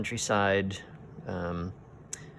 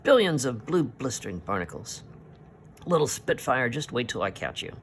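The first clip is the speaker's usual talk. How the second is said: a touch of hammed-up sailor's fury, a bit raised; angry oath; 4 semitones higher than usual. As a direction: curse the little spitfire. Haddock furious after being bitten.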